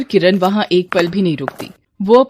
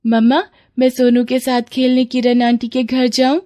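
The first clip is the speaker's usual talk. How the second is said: lightly voiced child asking; a hint of a small daughter's plea; little girl; 3 semitones higher than usual. Daughter asking mother to go and play, childlike.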